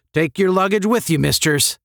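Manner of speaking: brisk senior cadet's rebuke; snapped order. A narrator's reading. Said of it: "snapped Herbert".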